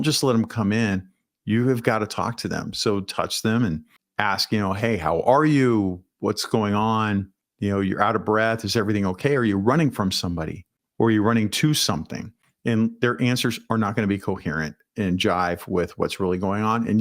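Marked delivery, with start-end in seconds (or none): 4.7-12.3 calm concerned greeter. Acted. Greeter checking on a breathless visitor.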